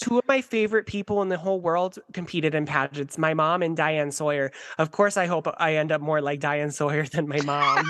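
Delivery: lightly imitated Minnesotan pageant girl; mild put-on Minnesota accent. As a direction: play a Minnesota contestant giving her speech. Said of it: "And then she's like".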